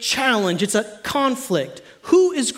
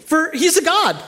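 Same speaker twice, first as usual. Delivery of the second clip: mocking taunt; 8 semitones higher than usual. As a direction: taunt the prophets of Baal like Elijah. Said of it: "He mocks them".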